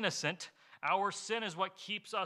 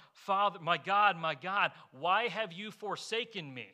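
mild retold cry; 2 semitones higher, 4 dB louder than usual. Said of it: "He cries out".

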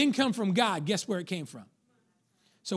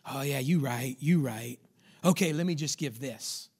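meek giving in; 4 semitones lower than usual. Acted. Giving in to the doubting voice.

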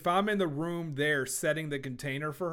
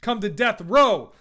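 loud gangster boss voice; Suge Knight; 6 dB louder than usual. Retold or imitated. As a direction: bark it like a tough mogul. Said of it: "I might sound like Suge Knight here".

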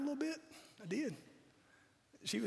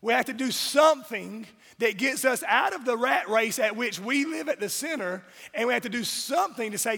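preaching; 2 semitones higher, 4 dB louder than usual. Acted. Preaching to the congregation.

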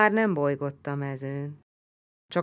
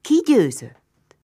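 high, loud, slow strained cry; desperate call; 8 semitones higher, 10 dB louder, slower than usual. Acted. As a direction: call out weakly into the dark. Dying Hun called to in dark. (feszült, elhaló kiáltás)

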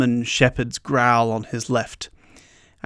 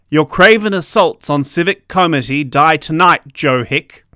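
loud, gravelly vigilante threat; gravelly booming voice; 3 semitones higher, 5 dB louder than usual. Acted. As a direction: boom it out in a rough voice. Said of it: "A gravelly voice boomed".

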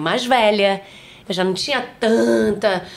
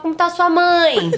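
curious fan; 7 semitones higher, 3 dB louder, slower than usual. Retold or imitated. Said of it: "as pessoas falavam".

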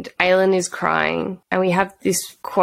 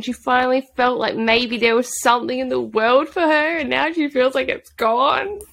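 higher-pitched, pleading lament; wounded, higher voice; upset on her behalf; 5 semitones higher than usual. Real, not acted. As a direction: lament it with real sympathy.

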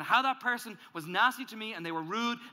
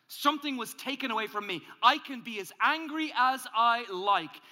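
self-justifying anger; 2 semitones higher, 4 dB louder than usual. Acted. Voicing the angry self's excuses.

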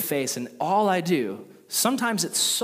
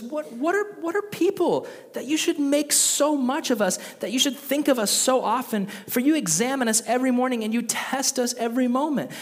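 much higher, pleading and raw; anguished plea to God; 8 semitones higher than usual. Retold or imitated. Pastor voicing Job's desperate plea to God, strained high. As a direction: keep pushing the lament up high.

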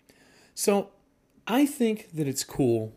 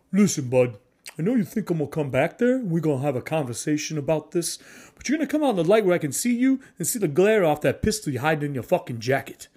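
louder, threatening street-tough voice; burly bruiser calling out a hidden gunman, louder; in-character tough guy; 2 semitones higher, 4 dB louder than usual. Shown as a demonstration. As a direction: square up and warn him off, chest puffed. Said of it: "a player who's in character may do this".

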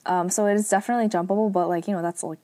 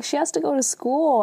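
higher-pitched, lightly acted protest; mild mock indignation, pitched up; arguing mom; 7 semitones higher than usual. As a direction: imitate a mom arguing with dad. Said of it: "they're arguing".

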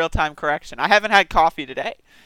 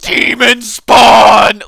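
mock horror; 3 semitones higher, 14 dB louder, much slower than usual. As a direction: recoil from a monster in fake terror. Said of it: "and everyone's like".

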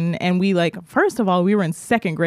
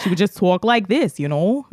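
imitating a cousin with a New York accent. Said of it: "That was my New York accent".

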